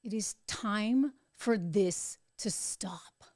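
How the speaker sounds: slow, breathy whisper, every word weighed; hushed whisper. Real, not acted. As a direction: lean in and whisper it gravely. Solemn appeal to viewers.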